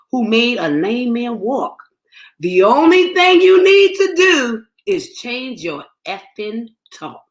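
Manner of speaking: measured spoken-word poem read. Acted. Poet reading her own poem to the listener.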